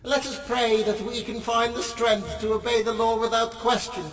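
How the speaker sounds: intoned, steady prayer reading; solemn prayer. Acted. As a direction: lead the congregation in prayer. Leads a prayer.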